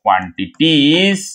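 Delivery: very slow, stretched syllables with a rising end; slow dictation. Real, not acted. Teacher telling the class what to write, slow dictation. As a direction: spell it out by sound for writers.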